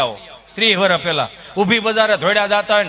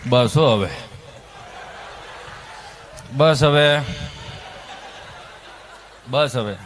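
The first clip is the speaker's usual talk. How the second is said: much lower stern dad telling them enough; gruff father; 10 semitones lower, 4 dB quieter, slower than usual. Retold or imitated. A tired father tells the noisy kids to stop. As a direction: drop low like a fed-up father.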